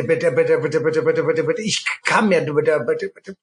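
mock pleading. Pleading in exasperation.

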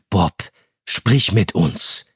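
slow, gentle coaxing; empathetic. Acted. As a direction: draw him out slowly and kindly. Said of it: "sagte Justus einfühlsam". (einfühlsam und langsam)

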